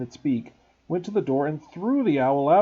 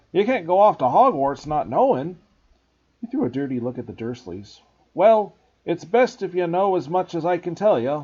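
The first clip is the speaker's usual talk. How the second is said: loud, higher gruff giant; earnest big gamekeeper; Hagrid voice; 4 semitones higher, 6 dB louder than usual. Acted. Hagrid speaking.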